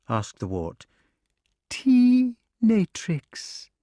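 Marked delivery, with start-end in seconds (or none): 1.7-3.7 high, loud snap of its name; proud snake. A narrator's reading. Snake tells Wart its name, high and proud. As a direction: announce it crisply.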